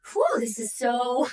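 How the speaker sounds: talking through the burn while holding a plank; straining under core effort; strained mid-plank. Real, not acted. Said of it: "My abs are on fire".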